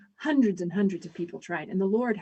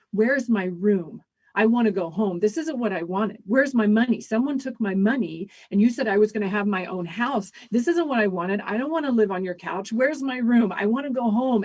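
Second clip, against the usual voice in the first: panicked anger; 5 dB louder than usual. Retold or imitated. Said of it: "he started panicking and he started getting angry".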